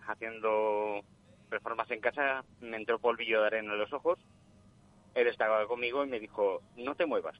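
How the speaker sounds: voz de llamada telefónica; por teléfono. Real, not acted. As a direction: suena a través del teléfono. Llamada en directo al programa. (voz de oyente por teléfono)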